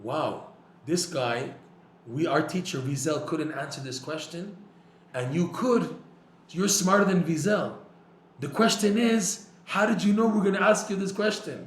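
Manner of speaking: acted-out astonishment, building to high and loud; amazed questioners. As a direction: marvel out loud as the baffled crowd, rising in pitch and volume.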